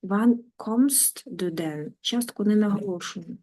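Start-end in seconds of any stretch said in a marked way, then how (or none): 0.0-1.9 slow, with no stress on "denn"; particle left unstressed. Shown as a demonstration. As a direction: let "denn" fall away unstressed, stress "Wann". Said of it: "не наголошуйте частки".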